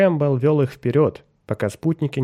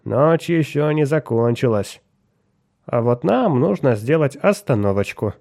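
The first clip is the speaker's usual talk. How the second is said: sharp wheedling voice; 2 semitones higher than usual. Acted. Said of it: "резким голосом".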